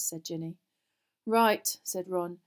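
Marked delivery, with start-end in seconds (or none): 1.2-1.8 loud, higher, huffy word; annoyed, abrupt; put out. A narrator's reading. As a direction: say it thoroughly put out. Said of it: "looked extremely put out".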